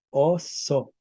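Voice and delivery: "Oso" split as os-so, double s; medieval Spanish pronunciation. Shown as a demonstration. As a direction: hold the s in "Oso" across two syllables. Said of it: "En español medieval se decía". ("Oso" medieval, con doble s)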